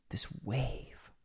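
whispered, rising slightly. Acted. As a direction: breathe it out as a whisper. Whispered echo.

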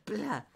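high, sudden "plá" of metal shutting; sharp mouth-made door slam; imitated slamming door. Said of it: "cuando cierra".

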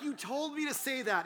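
high-pitched, indignant comeback; defensive protest. Retold or imitated. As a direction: protest your innocence in a high voice. Acts defending himself to friend.

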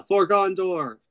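high, loud rallying call; mock battle cry. Rangers showing up to attack, mock battle cry.

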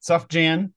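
a singer's name as "SUFF-jan", rising; joke mispronunciation. Shown as a demonstration. Fan echoing the host's joke, "suff-jan" mispronunciation. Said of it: "if somebody says Sufjan".

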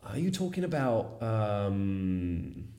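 excited football fan, high-pitched; Liverpool fan impression. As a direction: hype up your favourite player like a superfan. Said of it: "Fan del Liverpool, quello famosissimo". (tifoso del Liverpool esaltato, voce acuta)

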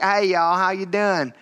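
lightly drawn Southern greeting; a friendly hint of Southern accent. Southerner greeting people up on the East Coast, mild Southern accent. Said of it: "someone's from down south".

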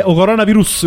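"o coronavirus" with Neapolitan article "o"; quick Campanian "o coronavirus"; Neapolitan accent. Retold or imitated. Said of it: "come dicono in Campania".

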